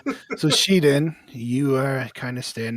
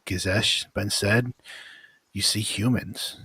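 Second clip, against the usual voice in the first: story narration. A narrator's reading. Game master describing the vision to the players, steady narration. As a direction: paint the horror evenly for the players.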